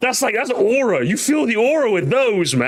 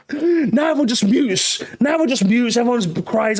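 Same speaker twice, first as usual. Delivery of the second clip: tag; 4 semitones higher than usual. Acted. Continuing the mock lament.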